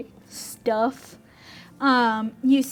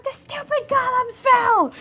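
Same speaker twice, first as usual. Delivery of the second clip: very high goblin complaint; annoyed goblin; 13 semitones higher than usual. Acted. GM voicing a goblin blaming the golems, very high whine. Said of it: "And, like".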